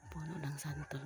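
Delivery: winded, breathy whispering words; out of breath. Real, not acted. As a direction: talk while out of breath from walking. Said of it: "Hiningal ako". (hinihingal na pagsasalita)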